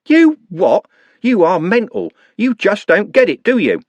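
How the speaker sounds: high shouted scorn; sting him like a wasp; in-your-face anger. A narrator's reading. Trev in Andy's face, shouting scornfully.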